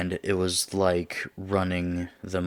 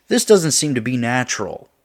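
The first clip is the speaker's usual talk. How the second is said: loud, raised voice coming down from a yell; higher, louder agitated objection; agitated protest; 6 semitones higher, 10 dB louder than usual. Acted. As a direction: insist it loudly, still worked up. End of the acted outburst.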